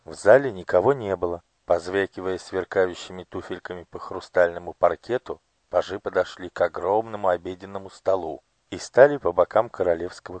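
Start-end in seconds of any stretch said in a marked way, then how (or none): none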